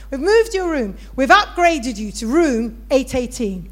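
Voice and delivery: emphatic front-desk announcement, lightly acted; imitated hotel receptionist. Receptionist telling a guest of an upgrade, emphatic. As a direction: announce the upgrade like a proud clerk. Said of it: "And that's how he said it".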